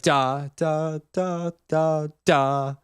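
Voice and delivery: first "da" emphasized over the rest; legato accent. Shown as a demonstration. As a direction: lean on the opening "da", beat one. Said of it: "legato accent will give one, one, uh, note more emphasis".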